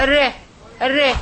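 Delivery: "re" isolated and clearly sounded; r plus short front vowel in "re"; ra with kasra. Shown as a demonstration. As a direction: repeat "re" as a short separate syllable. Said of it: "here I will clarify to you".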